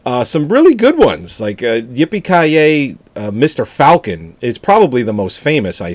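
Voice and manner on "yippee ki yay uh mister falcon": bad acting. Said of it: "the dub version of that has".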